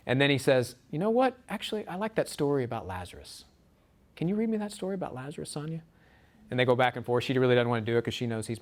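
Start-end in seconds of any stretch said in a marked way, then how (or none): 0.9-5.8 mocking. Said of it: "is mocking her".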